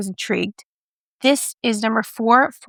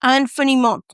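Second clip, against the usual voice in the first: attempted French; 3 semitones higher than usual. Shown as a demonstration. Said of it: "I know I can't pronounce".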